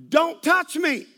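sharp yelled out; mock yell. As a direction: snap it at him like an offended stranger. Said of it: "she yelled out".

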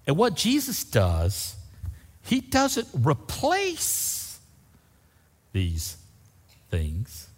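soft intimate preaching. Real, not acted.

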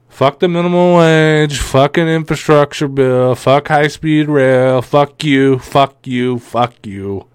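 slow mocking rant; mock Democrat rant. Host mocking establishment Democrats, slow scornful rant. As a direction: drag out each fuck with scorn.

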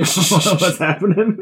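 slow laughing disbelief. Real, not acted. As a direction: ask through laughter. Laughing at misread.

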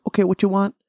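mock Asian accent. Restaurant worker taking a phone order, mock Asian accent. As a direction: slip into a caricature Asian accent. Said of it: "I keep going into the accent".

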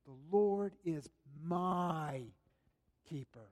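personal, sinking confession; emphasis on each word. Shown as a demonstration. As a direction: let "keeper" sink to a hush. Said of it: "placed emphasis on each individual word".

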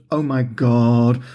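put-on slow, drawn-out "Oh my God" like a fed-up teenager; a touch of teenage exasperation, dragged slowly; exasperated mutter. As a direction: sigh it out, mildly exasperated. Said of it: "much the same exasperated way".

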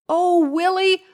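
high, delighted storybook greeting; mildly excited character welcome; exclaiming. A narrator's reading. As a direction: start high on the name, glad to see him. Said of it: "exclaimed Larissa".

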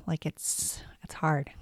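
soft, papery whisper from a sore throat; raspy whisper. Real, not acted. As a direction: breathe the words out hoarsely. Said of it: "excuse my raspy voice".

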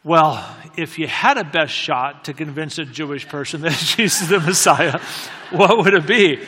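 mildly exasperated imitation; retold exasperation, building in volume. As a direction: press the question with acted impatience. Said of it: "she was so exasperated".

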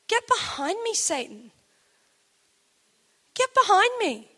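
loud, sharp command with pitch jumping up; stern rebuke. Retold or imitated. Jesus rebuking Peter, a loud stern command. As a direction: order him back forcefully.

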